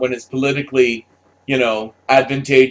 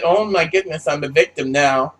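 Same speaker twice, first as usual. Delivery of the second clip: high, pleading mock victim voice, rising higher; mocking a damsel begging for rescue, pitched way up; mock helpless victim; 8 semitones higher than usual. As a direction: whine for help in a hammed-up helpless voice. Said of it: "it's like".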